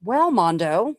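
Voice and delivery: booming mock mobster announcement; mob boss voice. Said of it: "Sorry, I had to do that".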